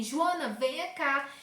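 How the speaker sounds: "Joana, venha cá" as a slow falling command; exclamation tone. Shown as a demonstration. Teacher showing the exclamation in a WhatsApp message, commanding. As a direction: order Joana over, firm. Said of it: "pra me exclamar e dizer que eu tô dando uma ordem".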